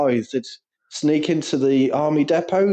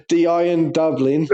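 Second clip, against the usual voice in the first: laughing; 3 semitones higher, much slower than usual. Real, not acted. Repeating pun laughing slowly.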